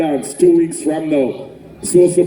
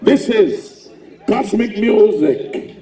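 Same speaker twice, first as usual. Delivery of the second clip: New York hype voice; 5 semitones higher than usual. Shown as a demonstration. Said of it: "turn this southern accent off when I introduce".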